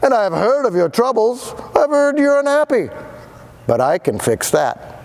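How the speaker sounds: high showman pitch, lightly voiced; a hint of a fast-talking pitchman; keen salesman. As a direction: sell it like a smooth huckster. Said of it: "in a voice clear and keen".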